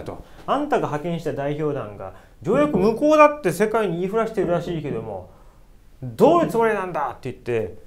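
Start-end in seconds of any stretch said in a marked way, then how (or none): 0.5-7.1 angry scolding. Retold or imitated. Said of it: "ものすごい剣幕で".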